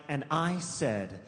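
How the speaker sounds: slow, measured storybook refusal; mock-dramatic, deliberately slow; mock solemn ending. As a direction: draw it out like a story's big ending.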